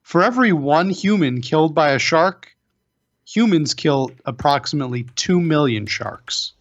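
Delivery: grave statistic read; PSA announcer. Pretend. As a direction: state it like a public warning. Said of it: "a P S A".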